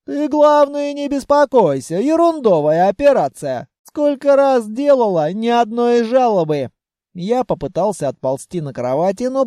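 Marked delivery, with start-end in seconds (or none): 0.1-6.7 put-on raised, scolding old granny voice; scolding grandmother. Grandmother scolding Vanya after the explosion, raised. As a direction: hug and scold in one breath.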